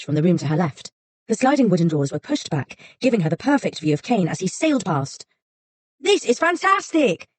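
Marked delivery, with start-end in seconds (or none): 6.0-7.3 slow, high gleeful shout. Acted. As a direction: shout it out with delight. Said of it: "he shouted".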